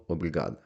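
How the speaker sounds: «обрігада» said clearly, stress on «га», ending in a; teacher models «обрігада»; model Portuguese word. Shown as a demonstration. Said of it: "або".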